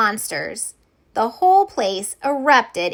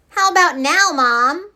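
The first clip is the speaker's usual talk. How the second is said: put-on high girl voice; 6 semitones higher, 4 dB louder than usual. Betty trying faces.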